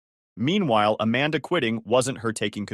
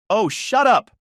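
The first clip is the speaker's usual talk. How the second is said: much higher, louder furious shout; angry snap; 9 semitones higher, 7 dB louder, slower than usual. A narrator's reading. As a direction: cut her off with a yell. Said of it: "Amanda snapped".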